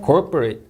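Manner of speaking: CORPORATE with COR hit; clearly stressed CORPORATE; word stress. Shown as a demonstration. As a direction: punch the first syllable of CORPORATE. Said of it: "이음절 강세".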